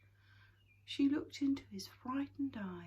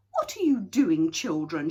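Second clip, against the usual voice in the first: crying out; 14 dB louder than usual. A narrator's reading. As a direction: call out sharply to the children. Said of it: "she cried".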